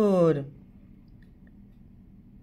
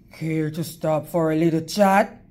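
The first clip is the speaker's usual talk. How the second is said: a lightly lowered, smooth wolf voice; wolf sweet-talking the girl, a touch lower; sly wolf; 5 semitones lower than usual. Acted. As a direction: purr it like a charming predator. Wolf invites her to chat.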